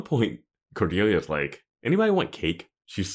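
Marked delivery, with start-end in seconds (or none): 1.8-2.7 high bored chirp. Retold or imitated. Cordelia quoted, bored.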